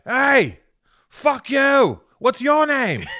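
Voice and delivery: high, loud cartoon dog; hammed-up dog shouting a challenge; meme dog voice. Imitating two meme dogs squaring off, high loud yapping voice. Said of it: "the two dogs are like".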